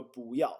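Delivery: 不要 with 不 rising before the falling 要; second-tone 不. Shown as a demonstration. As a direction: lift 不 in 不要 as a second tone. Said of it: "makes more sense to go like this".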